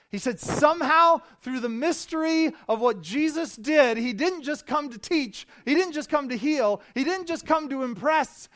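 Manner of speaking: loud, high-pitched preaching; impassioned preaching. Acted. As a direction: build it to a full-force proclamation from the pulpit. Preaches at full force.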